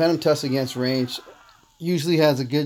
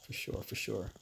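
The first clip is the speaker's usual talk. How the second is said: whispered; 3 semitones lower, 14 dB quieter than usual. Real, not acted. Aside, unvoiced and very soft.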